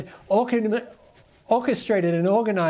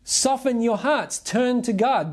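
Peter urging; 4 semitones higher, slower than usual. Retold or imitated. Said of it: "basically Peter says".

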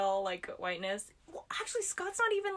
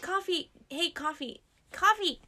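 high sing-song call to a cat; 9 semitones higher, 4 dB louder than usual. Real, not acted. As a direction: call the cat across the room, pitch up. Calling the cat.

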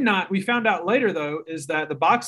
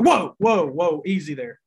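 imitated freak-out; 4 dB louder than usual. Voicing listeners lost in a scientific topic, mock freaked-out. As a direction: act out startled listeners, then settle back down. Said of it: "They just freak out".

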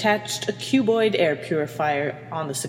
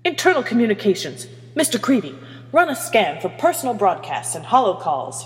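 higher, brisk barked order; 5 semitones higher, 3 dB louder than usual. Acted. Captain orders officer to scan communications, barking. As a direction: bark out the order. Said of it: "Hermione barked".

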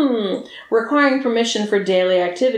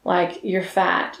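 slow insult; 5 semitones lower, 4 dB quieter, slower than usual. Retold or imitated. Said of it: "I was like".

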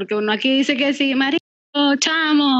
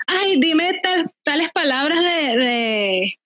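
foreigner asking; slower than usual. Retold or imitated. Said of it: "le dicen".

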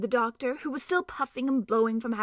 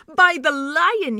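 slow, louder oath; swearing; 6 semitones higher, 9 dB louder, slower than usual. Acted. Doctor swearing on seeing the mouse, slow louder oath. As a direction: swear it with amazement. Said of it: "he swore".

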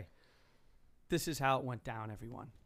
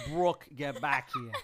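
loud call; 9 dB louder, slower than usual. Shown as a demonstration. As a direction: call her name across the room. Corrects name, then calls out.

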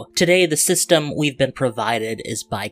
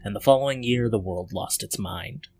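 setting narration. Acted. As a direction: set the world like an epic trailer. Reads setting intro.

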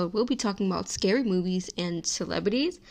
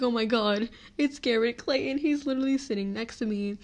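fangirling; 3 semitones higher than usual. Retold or imitated. Fan meeting her childhood idol, excited fangirl gush. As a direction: squeal it like a starstruck fan. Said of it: "I start fangirling and freaking out".

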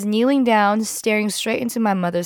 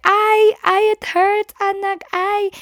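very high, loud pained wails; wailing in pain; 11 semitones higher, 4 dB louder than usual. Retold or imitated. Mom wailing while her daughter pops the pimple, very high. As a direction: cry out as it hurts.

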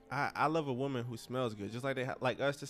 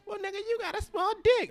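mocking comeback; 5 dB louder than usual. Mock insult comeback quote.

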